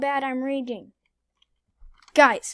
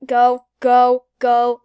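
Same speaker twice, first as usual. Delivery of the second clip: shout; 12 dB louder, much slower than usual. Real, not acted. Urging escape in panic.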